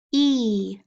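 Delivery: "E" said alone as a long ee; isolated vowel sound. Shown as a demonstration. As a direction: stretch out "E" for the class. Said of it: "Digraph E A".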